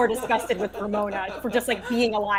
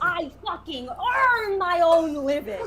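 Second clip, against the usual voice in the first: mock tearful outburst; 6 semitones higher, slower than usual. Acted quarrel, mock tearful.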